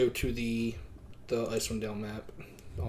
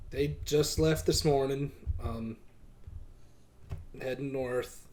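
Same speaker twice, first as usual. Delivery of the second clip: monotone voice. Acted. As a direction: keep it level and unbothered. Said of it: "still with the monotone voice".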